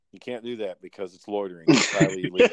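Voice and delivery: retelling the cartoon line to the kid, cracking up; lightly voiced cartoon quote breaking into a laugh; Aqua Teen Hunger Force impression. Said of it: "I was ripping off Aqua Teen Hunger Force".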